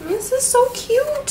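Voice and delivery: high, slow delighted squeal; giddy squealed praise. Real, not acted. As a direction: gush like a thrilled fan. Gushing over stickers.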